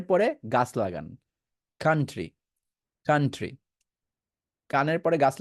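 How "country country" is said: কান্ট্রি as "KAN-tri"; correct country. Shown as a demonstration. Teacher models after the ear-and-tree trick, "kan-tri". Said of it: "কাউন্ট্রি না বলে".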